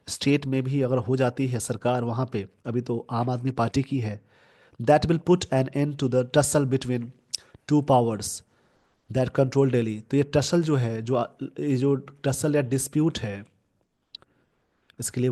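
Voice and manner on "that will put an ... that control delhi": slow, careful reading of an English news line; deliberate classroom news reading. Shown as a demonstration. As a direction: read it out word by word for the class. Reading newspaper sentence aloud.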